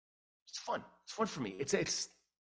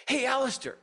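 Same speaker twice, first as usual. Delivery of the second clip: high, louder mock call; 9 semitones higher, 5 dB louder than usual. Hockey guys call Alistair once more, hailing him loudly. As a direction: imitate a pal hailing a friend.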